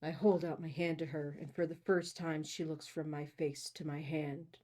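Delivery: low, soft book reading; story narration. A narrator's reading. Host reading the hero's first-person account, story narration. Reads the novel aloud.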